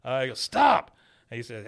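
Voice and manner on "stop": mock shout. Retold show scene, shout.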